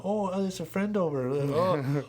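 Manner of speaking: a put-on sugary voice; mock sweet voice. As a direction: sneer at the pets' sudden good manners. Mocking the pets being nice.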